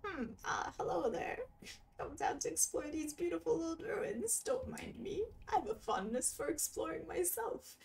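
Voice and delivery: high nerdy cartographer. Acted. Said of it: "give this guy, like, a really nerdy voice".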